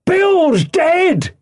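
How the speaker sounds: high cry of surprise; startled, high-pitched shout; shouting from the house. A narrator's reading. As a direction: yell the news out to those outside. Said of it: "a voice shouting from the house".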